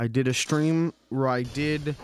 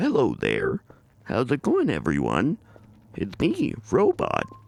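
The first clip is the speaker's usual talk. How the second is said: low, swooping speech on the inhale; 4 semitones lower than usual. Imitating a streamer's character Robot: imitating a streamer's inhaled robot voice. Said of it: "he's like".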